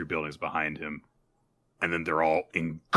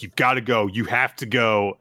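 pressing, a bit louder and urgent; demanding; 4 semitones higher, 5 dB louder than usual. Retold or imitated. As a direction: insist he leave now. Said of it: "everyone's demanding".

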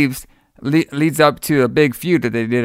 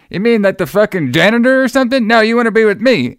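mock outraged wrestler; 9 semitones higher, 4 dB louder, faster than usual. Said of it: "He's like".

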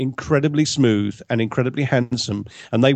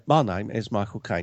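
light Cockney actor impression, a bit lower; Michael Caine; 4 semitones lower, 3 dB quieter than usual. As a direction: lightly imitate a famous Cockney actor's measured delivery. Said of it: "but he was Michael Caine".

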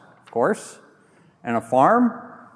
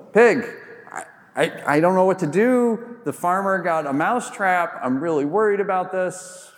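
worried mouse; 4 semitones higher than usual. Acted. Mouse pleads with the pig.

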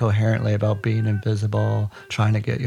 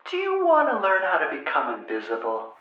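a hint of a teasing mother, higher; lightly voiced mother setting up a trick; sly mother; 6 semitones higher than usual. Mother covering the phone to tease her son, lightly voiced higher.

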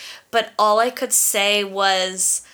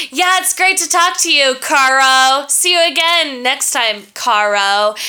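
sugary fake friendliness; 4 semitones higher, 4 dB louder than usual. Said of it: "And I'm like".

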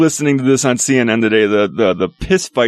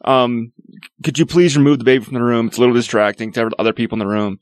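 polite request; 3 semitones lower than usual. Retold or imitated. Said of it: "been like".

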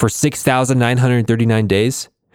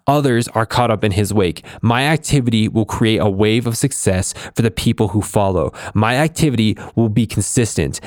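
firm declamatory self-affirmation read; steady, resolute affirmation reading; motivational creed reading. Acted. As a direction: proclaim each line like a personal vow.

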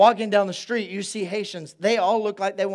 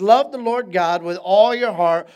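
solemn proclamation; 7 dB louder than usual. Retold or imitated. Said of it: "and he says".

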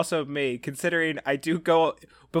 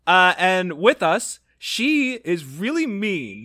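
announcer intro; 4 semitones higher, 4 dB louder, much slower than usual. Acted. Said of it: "an intro based on this bully".

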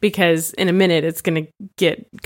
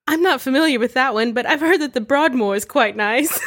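put-on posh British accent; 5 semitones higher than usual. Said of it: "he's got this very posh accent".

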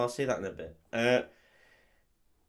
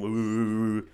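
drawn-out machine-like "oooh"; long humming "wooo" noise; imitated whirring "ooh"; 2 semitones lower than usual. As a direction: mimic lab apparatus with a long "ooh". Imitates the blood testing thing.

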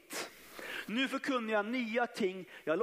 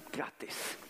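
whispered aside; 7 dB quieter than usual. Acted. Dry remark after mountains in life.

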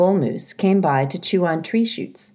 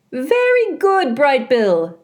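put-on louder, cheery old goose greeting; old goose Loudwing; 9 semitones higher, 3 dB louder, slower than usual. A narrator's reading. Loudwing waddling into the garden, hearty goose voice. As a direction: hail them like a jolly old goose.

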